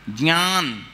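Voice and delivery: ज्ञान as "jnyaan", sounded through the nose; nasal pronunciation. Shown as a demonstration. Teacher shows the class ज्ञान with a nasal sound. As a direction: let ज्ञान ring in the nose. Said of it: "नाक के स्वर से बोला जाएगा".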